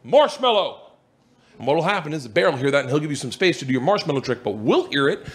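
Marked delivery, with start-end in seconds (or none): 0.0-0.8 firm, assured safe word; demonstrating a confident delivery. Retold or imitated. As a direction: say it with calm authority. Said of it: "just very confidently say".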